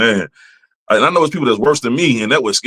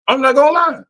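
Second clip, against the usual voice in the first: squeaky aside. Real, not acted.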